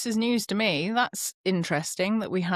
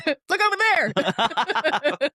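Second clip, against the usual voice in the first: slow; 7 semitones higher, much slower than usual. Pretend. Joking distraction line.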